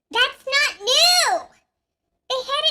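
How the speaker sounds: loud, slow, high "not new" protest; indignant outburst. Real, not acted. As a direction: call it out in disbelief. Indignant outburst at product reveal.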